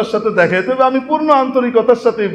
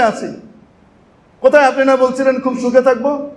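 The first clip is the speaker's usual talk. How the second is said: anguished lament; 4 semitones higher than usual. Acted. Damned souls lament to Iblis.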